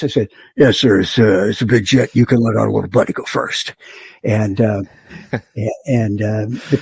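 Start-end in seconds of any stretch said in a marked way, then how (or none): 0.6-3.7 a put-on deep radio voice, only a little lower; deepest voice. Pilot answering the tower controller in a mock deep voice. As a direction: answer the tower in your most authoritative deep voice. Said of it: "in my deepest voice".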